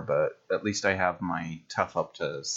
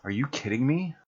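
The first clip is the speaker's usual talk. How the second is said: delighted disbelief; 5 semitones higher than usual. Real, not acted. Hears she attacks again.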